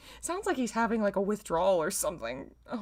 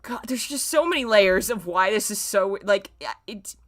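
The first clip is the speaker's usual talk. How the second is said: exasperated rant; 4 semitones higher, 6 dB louder than usual. Real, not acted. Ranting at the story.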